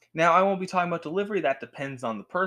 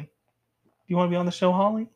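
voicing the cat; 4 semitones higher, 4 dB louder, much faster than usual. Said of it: "she just said something".

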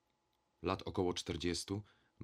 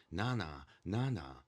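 crowd call; slower than usual. A narrator's reading. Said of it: "wołały głosy w tłumie".

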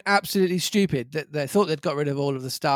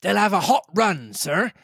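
captain crying; 4 semitones higher than usual. Acted. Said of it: "cried the captain".

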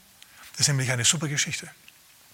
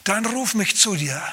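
much higher, slow, awed plea; voicing Peter; 7 semitones higher, slower than usual. Peter calling to Jesus on the water, slow and high. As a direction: call out slowly and high, hoping it is him. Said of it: "Und er sagt".

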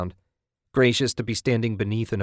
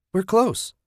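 high, eager and a bit louder; happily; 12 semitones higher, 4 dB louder than usual. A narrator's reading. Wife tells her husband they are nearly there, much higher and happy. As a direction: let the hope spill out. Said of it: "Susan said happily".

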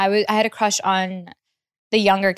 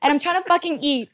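mildly heated rant, pitched up; exasperated rant; 4 semitones higher than usual. Acted. Friend scolds whoever is holding onto their phone, exasperated. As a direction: rant at a dawdling friend, half-joking.

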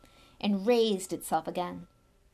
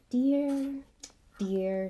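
fussing Lockhart; 5 semitones higher, 3 dB louder than usual. Acted. Lockhart fussing over duel aftermath.

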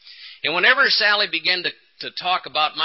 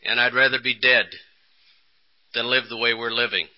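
despairing tone; 5 semitones lower than usual. Retold or imitated. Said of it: "a different tone in her voice".

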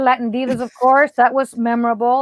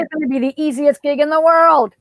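slightly lifted, mock-cocky prediction; retold overconfidence, pitched a little up; breezy confidence; 4 semitones higher, 3 dB louder than usual. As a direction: toss it off as a sure thing. Quotes her confidence before election.

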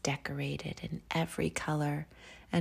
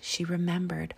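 whispered story; 2 semitones higher than usual. A narrator's reading. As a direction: breathe the story out gently. Whispered bedtime story reading.

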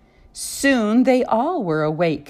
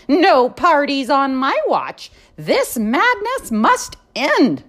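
stern librarian; 5 semitones higher than usual. Acted. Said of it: "she yelled back at him".

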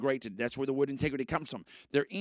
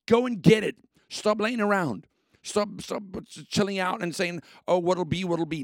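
higher and louder push to get moving; rallying shout; 3 semitones higher, 4 dB louder than usual. Acted. Host urging lazy listeners to act, rallying shout. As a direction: coach them off the couch. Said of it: "this is me saying".

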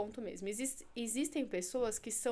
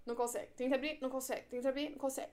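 pushy, fast stage hypnotist countdown, louder on the count; urging stage hypnotist; 3 semitones higher, 6 dB louder than usual. Shown as a demonstration. Hypnotist pressing a volunteer on stage, insistent and fast. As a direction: drive the subject on like a stage hypnotist. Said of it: "Um exemplo".

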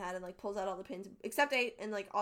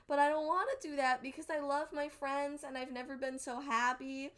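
higher-pitched imitation of an earnest plea; lightly acted heartfelt protest; retold plea; 5 semitones higher than usual. Acted plea of troubled character.

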